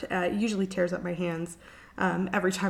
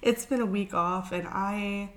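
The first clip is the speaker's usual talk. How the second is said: sick. Real, not acted. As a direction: talk through the flu, worn out. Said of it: "some kind of sickness has hit".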